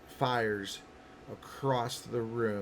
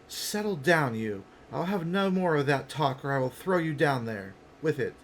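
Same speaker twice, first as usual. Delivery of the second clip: lightly voiced stern companion; mild in-character threat; stern scolding; 4 semitones higher, 5 dB louder than usual. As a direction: put an unruly companion firmly in their place.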